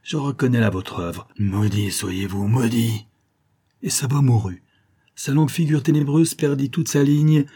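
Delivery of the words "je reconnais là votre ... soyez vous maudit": slow, drawn-out curse on maudit; the dying giant cursing his foe. Acted. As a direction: lay the curse word by word. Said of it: "s'écria-t-il".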